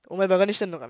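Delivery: loud burst of acted anger; mock angry outburst. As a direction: snap loudly as the enraged culprit. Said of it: "切れて。". (犯人がキレた芝居)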